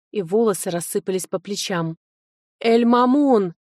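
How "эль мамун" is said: громкий выкрик имени, выше и громче; позвать через окно во весь голос; крик в окно. A narrator's reading. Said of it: "крикнула я в окно". (громко крикнуть в окно камеры, зовя наставника)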